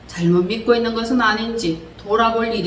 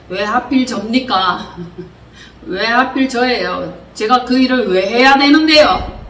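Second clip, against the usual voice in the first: mock complaining prayer. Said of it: "하나님의 뜻을 고역했습니다".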